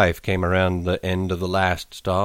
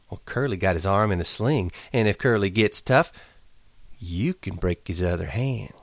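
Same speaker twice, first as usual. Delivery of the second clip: Curly's wife, teasing; 3 semitones higher than usual. Acted. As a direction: tease him like a flirt.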